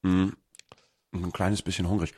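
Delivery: talking while chewing a snack; mouth full. Real, not acted. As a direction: speak around a mouthful of food. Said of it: "Entschuldigung, dass ich was knabber".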